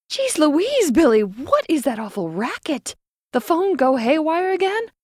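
high, loud call across a busy room. A narrator's reading. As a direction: shout over to her, startled. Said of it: "Lenora asked from across the room".

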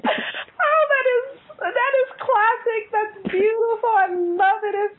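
real crying-laughing delight; laughing to tears. Real, not acted. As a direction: gush through tears of laughter. Laughing till tearful.

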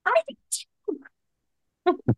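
very high, gleeful squeal; match your friend's joy, way up high; squealing reply. Retold or imitated. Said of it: "And I'll be".

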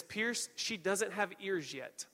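slow, emotionless delivery; deadpan. Retold or imitated. Wife correcting her tearful husband, deadpan. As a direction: break it to him slowly, with no emotion. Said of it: "looks at me with no emotion and says".

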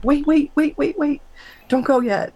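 high, pleading cry to stop him; frantic high calling after him; desperate plea. Retold or imitated. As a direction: beg him not to leave. Pleading as he drifts away.

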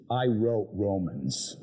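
slow, proudly announce it; proud badge voice. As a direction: boast like a badge says it.

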